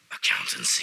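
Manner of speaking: a hammed-up oracle voice naming a career; deep solemn declaration. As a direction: announce it to the sun, very low. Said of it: "stare at the sun and say".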